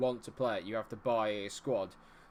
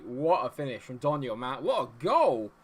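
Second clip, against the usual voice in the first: goal celebration; 3 semitones higher, 9 dB louder than usual. Real, not acted. Celebrates his goal in the game.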